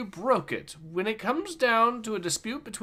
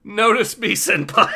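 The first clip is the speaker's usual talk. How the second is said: anime fangirl plea; 2 semitones higher, 7 dB louder than usual. Acted. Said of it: "Maz Kanata-kun".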